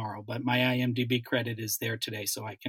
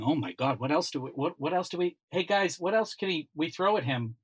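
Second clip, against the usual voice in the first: higher-pitched mock excitement of the casting team; imitated eager brainstorming; 4 semitones higher than usual. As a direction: act out colleagues eagerly hunting for more to give him. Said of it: "they were going".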